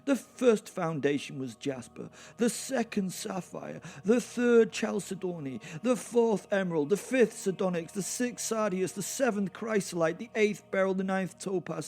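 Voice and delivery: high, loud scripture recital; lofty recital of scripture; heavenly proclaiming voice. Acted. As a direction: announce it like a heavenly herald. Long Bible quote in head.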